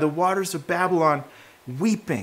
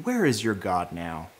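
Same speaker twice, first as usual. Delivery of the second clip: mocking captors; 6 semitones higher, 4 dB louder than usual. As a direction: sneer at the chained exiles like a cruel captor. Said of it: "their captors are there taunting them".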